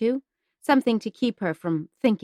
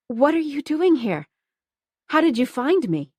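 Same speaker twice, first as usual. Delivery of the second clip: higher, louder disbelieving questions; surprised; 6 semitones higher, 4 dB louder than usual. Acted. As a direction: blurt it out in shock. Shocked reunion.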